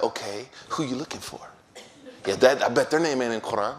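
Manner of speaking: laughing at his own joke. Retold or imitated. Scholar joking, speaker laughing.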